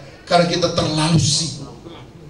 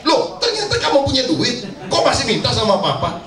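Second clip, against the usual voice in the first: mild mock anger; 5 semitones higher than usual. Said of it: "marah lagi".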